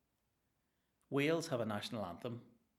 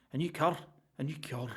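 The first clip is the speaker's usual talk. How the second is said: mock boast; 5 semitones higher, 5 dB louder than usual.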